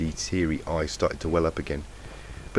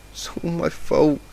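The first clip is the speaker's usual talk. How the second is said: "It's all my fault" said slow and worn out, mumbled after the crying; a tired, broken mumble of "It's all my fault"; mumbled through sobs; 11 semitones higher, 4 dB louder than usual. A narrator's reading. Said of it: "Mumbles of".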